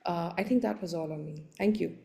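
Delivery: ordinary talk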